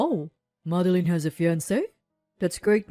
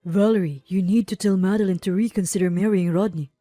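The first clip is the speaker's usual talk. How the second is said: louder, urgent warning; serious tone; 6 dB louder, faster than usual. A narrator's reading. Conrad warns his friend about her sister's fiancé, serious. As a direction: press the warning home firmly. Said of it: "continued in a serious tone".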